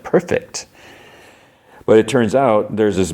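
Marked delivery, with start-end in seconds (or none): 0.0-0.7 airy, sly aside; chuckling satisfaction. Retold or imitated.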